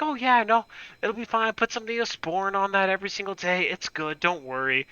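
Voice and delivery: high, breezy brush-off; lightly mock the casual doctor; dismissive doctor. Doctor waving off the injured kid, mock breezy. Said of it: "going like".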